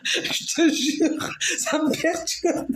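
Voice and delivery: slow, high words squeezed through laughter; laughing. Real, not acted. Woman swearing his English disturbs her, helplessly laughing. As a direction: struggle to speak through real giggles. Cannot stop laughing while talking.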